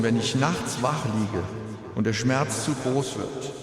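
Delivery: grieving father's eulogy, composed; at a graveside. Real, not acted. Eulogy for son at funeral.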